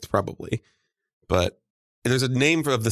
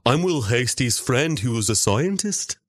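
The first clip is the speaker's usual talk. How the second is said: slow, put-on British accent; loosely British accent; mock British accent. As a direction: stretch it out in a comic British accent. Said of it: "every accent Will Hasty does".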